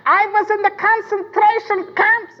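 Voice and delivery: high, slow anguished outcry in her voice; retold scream. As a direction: cry it out like she's reliving the camps. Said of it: "began to scream".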